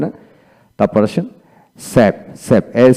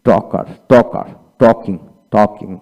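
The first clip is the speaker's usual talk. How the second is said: টকার and টকিং said slowly, word by word; slow demo; much slower than usual. Shown as a demonstration. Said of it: "এল উচ্চারিত হবে না". (শিক্ষার্থীদের জন্য ধীরে উচ্চারণ)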